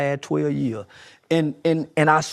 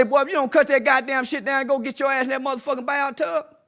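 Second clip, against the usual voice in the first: scolding parent; 5 semitones higher than usual. Retold or imitated.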